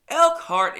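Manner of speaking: Elkhart shouted high and loud, a mock-grand announcement; booming Elkhart. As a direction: belt out Elkhart like a hype man introducing the town. Loud emphatic repeat of town name.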